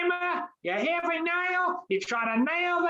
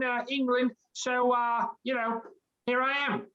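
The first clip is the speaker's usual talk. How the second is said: a mild British lilt, deeper and relaxed; British accent; 4 semitones lower than usual. Acted. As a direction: creature chatting in a light British accent. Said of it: "you sound like you're from over the pond".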